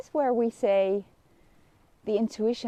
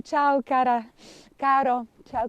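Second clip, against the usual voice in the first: cheerful greeting; 3 semitones higher, 5 dB louder than usual. Real, not acted. Greeting friend in Italian.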